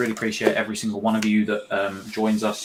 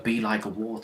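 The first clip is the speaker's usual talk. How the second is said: Bruce Lee quote; 5 dB quieter than usual. Retold or imitated. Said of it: "It's like me doing a".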